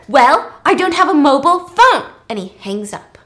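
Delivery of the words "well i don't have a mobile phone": curt retort. Acted. Virgil snapping back.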